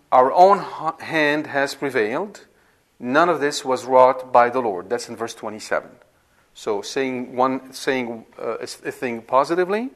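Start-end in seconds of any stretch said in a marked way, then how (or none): 0.1-4.9 emphatic scripture reading. Shown as a demonstration. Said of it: "example would be".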